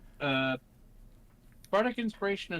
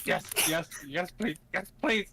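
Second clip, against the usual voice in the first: panicked repeating; 2 semitones higher than usual. Acted. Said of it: "He actually says in a panic, repetitive tone".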